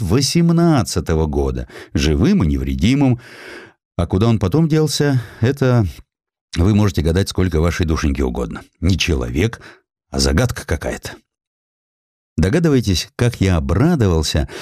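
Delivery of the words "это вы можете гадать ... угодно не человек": ordinary delivery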